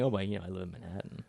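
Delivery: quick, hushed snooty humblebrag; snobby brag. Retold or imitated. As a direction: toss it off like a smug Manhattanite. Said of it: "it's not gonna impress the way that saying".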